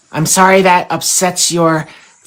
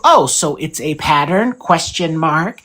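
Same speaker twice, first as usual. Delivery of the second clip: slow, softer, rising question on pattern; questioning tune; 3 semitones lower, 3 dB quieter, slower than usual. Shown as a demonstration. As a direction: lift the end of pattern into a question. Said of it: "There was a question mark at the end".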